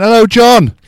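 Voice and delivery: high, loud, beaming greeting; excited TV host. Retold or imitated. Shopping channel host greeting the wrong name, high and loud. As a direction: greet the caller like a game show host.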